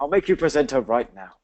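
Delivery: hammed-up mock English accent; botched English accent. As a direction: badly put on an exaggerated English accent. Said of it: "trying to do an English accent".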